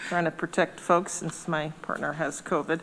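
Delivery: muffled behind a face mask; talking through a mask. Real, not acted. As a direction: speak through a mask, slightly breathless. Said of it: "hard to breathe in the mask".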